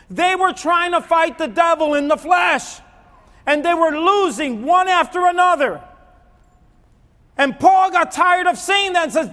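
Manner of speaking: high, loud impassioned sermon; full-force preaching. Real, not acted. Preacher urges church on Paul's begging, forceful preaching. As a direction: drive every phrase home to the congregation.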